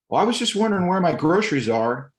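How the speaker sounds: mock impatient older lady on the phone; imitating the customer lady. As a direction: put on a high, pushy voice.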